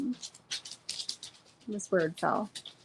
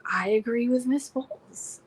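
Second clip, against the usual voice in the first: imitating the judge; 4 semitones higher than usual. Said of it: "kinda like this".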